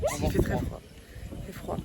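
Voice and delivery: teeth-chattering cold voice; shivering from cold. Real, not acted. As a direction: talk while freezing. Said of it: "nous sommes en train de nous geler".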